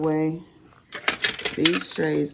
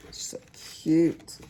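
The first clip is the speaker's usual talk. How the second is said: whispered aside; 2 semitones higher than usual. Real, not acted. Doting on grandson.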